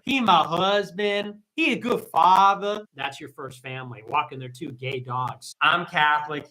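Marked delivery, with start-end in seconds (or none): 0.0-2.9 slow, drawn-out gushing parody; lightly voiced besotted wife; a hint of a doting wife bragging; mock gushing wife.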